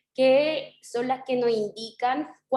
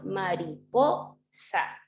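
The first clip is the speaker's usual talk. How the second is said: "mariposa" slowly, with "po" stretched out; stress on PO; 4 semitones lower, much slower than usual. Shown as a demonstration. Teacher confirming the stressed syllable, slow "mari-POOO-sa". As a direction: draw out the PO in "mari-PO-sa", then drop on "sa". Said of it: "donde yo hice como el énfasis en el po".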